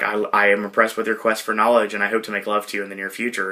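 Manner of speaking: low, soft earnest declaration; imitated deadpan sincerity; completely serious. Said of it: "she's completely serious".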